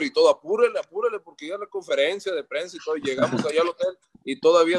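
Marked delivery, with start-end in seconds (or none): 0.3-1.2 higher, pushy urging to go faster; hurrying the driver. Retold or imitated. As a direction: rush the Uber driver. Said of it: "presionando al del Uber".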